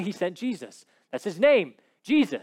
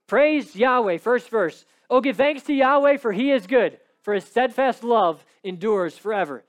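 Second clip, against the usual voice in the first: loud proclamation; 3 semitones higher, 5 dB louder than usual. Acted. Preacher proclaiming psalm.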